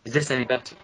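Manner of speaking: glitchy digitized mic voice; robot-like distorted sound; robotic voice. Real, not acted. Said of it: "you're still kinda robotic-y".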